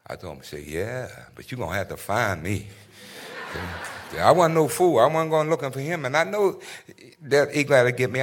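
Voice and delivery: proud, rising defiance; Troy boasting he won't go easy; Troy Maxson. Acted. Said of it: "That was Troy Maxson from Fences".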